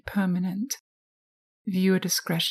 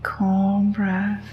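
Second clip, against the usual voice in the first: hypnosis voice; 4 dB louder than usual. Acted. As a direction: lull the listener into trance. Hypnosis guided relaxation.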